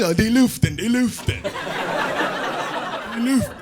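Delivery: mock allergy-stricken gasp, running out of air; imitated allergy sufferer. Allergic Swedish coworker blaming the air, mock breathless fading.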